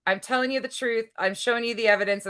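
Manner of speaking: brassy gum-smacking floozy; airy ditzy read of her post; blonde bimbo voice. Retold or imitated. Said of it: "my blonde bimbo voice comes out so easy".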